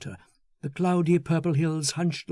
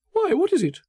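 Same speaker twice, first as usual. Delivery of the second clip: high, bright, self-satisfied chatter; a gushing, smug man showing off his prize; the narrator voices Foster pleased with himself; Foster, eager and pleased; 13 semitones higher, 5 dB louder than usual. Acted.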